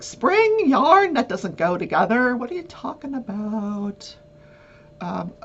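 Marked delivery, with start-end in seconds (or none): 0.0-4.2 mock disbelief. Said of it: "you're like".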